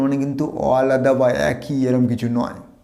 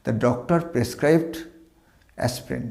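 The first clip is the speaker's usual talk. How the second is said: slow model sentence; 4 dB quieter, much slower than usual. Shown as a demonstration. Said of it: "model sentence read slowly".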